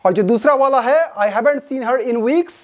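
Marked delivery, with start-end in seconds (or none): 1.1-2.5 very slow, careful read of an example; slow example sentence. Shown as a demonstration. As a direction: spell it out for learners. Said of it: "वो है American English". (धीमा उदाहरण वाक्य)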